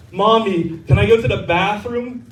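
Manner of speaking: lightly acted six-year-old girl; little girl. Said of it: "there was this little girl".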